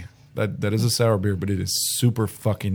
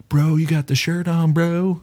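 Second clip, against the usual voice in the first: bro voice; 9 semitones higher, 4 dB louder, slower than usual. Retold or imitated. Retold guy greeting him.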